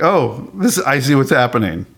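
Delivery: lightly re-enacted giddy realisation. Recalling watching that episode, mildly giddy. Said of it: "I was giddy".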